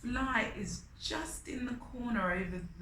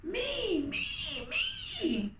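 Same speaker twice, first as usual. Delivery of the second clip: squeaky high eager calls; eager chorus; 11 semitones higher, much slower than usual. Acted. The big animals volunteering, high eager clamour. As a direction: everyone clamouring to be picked. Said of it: "called all of the big animals".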